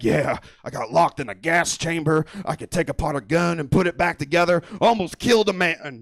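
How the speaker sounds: a hint of a boastful soldier; mimicking bragging brother. Comic mocking his Air Force brother's bragging at dinner, lightly voiced. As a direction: brag it offhand like a tough guy. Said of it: "This man over here being like".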